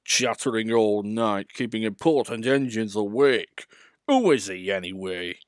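grouse with wounded pride; grumbling. Acted. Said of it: "grumbled Gordon".

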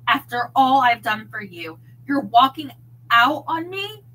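loud, hurt shouting. Acted. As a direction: keep yelling at the departing client. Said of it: "he shouted".

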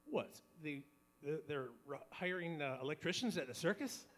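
dry, understated joke punchline; deadpan dog. Acted. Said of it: "he looks at her deadpan and says".

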